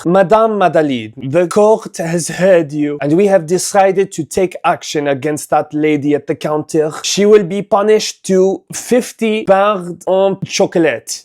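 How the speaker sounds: put-on a light French accent as a pompous judge; mock French accent. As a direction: pronounce the verdict in a hint of a French accent. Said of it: "snap out of the French accent".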